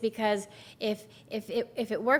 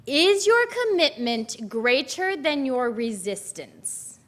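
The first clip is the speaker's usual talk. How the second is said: slower, louder repeat of the question; preacher raising the question to the congregation, louder and slower; louder for the back; 3 semitones higher, 6 dB louder, slower than usual. Real, not acted. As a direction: project it so the whole room hears. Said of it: "in case you guys can't hear me".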